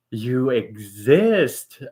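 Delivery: awed surprise. Retold or imitated. Meeting a mean Canadian, gasps.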